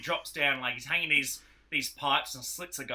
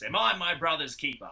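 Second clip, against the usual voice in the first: catchphrase; 4 semitones higher, 4 dB louder than usual. Retold or imitated. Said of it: "the whole catchphrase is".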